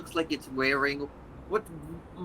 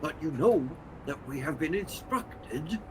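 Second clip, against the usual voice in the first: scolding creature voice; 6 semitones higher than usual. Acted. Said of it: "in Abyssal goes".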